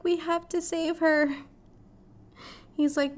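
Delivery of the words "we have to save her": urgent plea. Retold or imitated. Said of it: "Dan's like".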